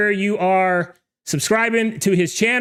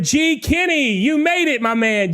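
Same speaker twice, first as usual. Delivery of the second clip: excited greeting; 5 semitones higher than usual. Real, not acted. Greeting a late viewer.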